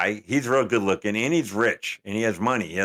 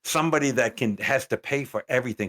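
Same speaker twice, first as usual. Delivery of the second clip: indignant challenge; 4 semitones higher than usual. Acted. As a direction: draw out the question in mock disbelief. Challenging the woman on the show.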